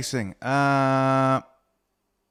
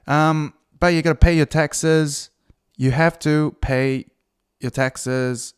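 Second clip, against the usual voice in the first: Brooklyn gangster; 2 semitones higher, 4 dB louder, slower than usual. Retold or imitated. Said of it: "it's not very Brooklyn".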